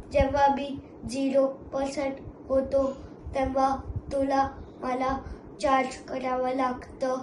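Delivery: a machine matter-of-factly explaining battery; lightly voiced robot. Robo explains it eats battery.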